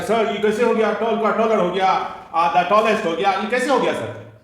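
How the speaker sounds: mock student question. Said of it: "आप लोग सवाल कीजिएगा कि".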